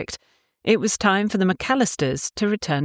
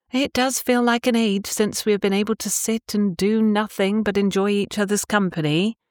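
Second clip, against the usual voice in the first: lightly voiced young woman; 6 semitones higher than usual. Tabitha voiced, higher.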